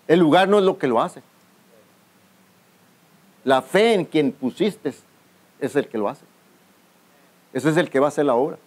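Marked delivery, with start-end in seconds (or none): 3.4-6.2 slow, weighty preaching with words drawn out; slow emphatic. Acted. Pastor drives the point home to the church, slow and weighty. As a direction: draw it out slowly so it sinks in. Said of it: "slowed for emphasis".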